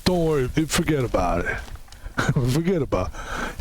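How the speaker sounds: lightly voiced Rocky Balboa, letting it go; Rocky impression. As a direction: brush off an apology as Rocky. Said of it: "Sorry, Rocky".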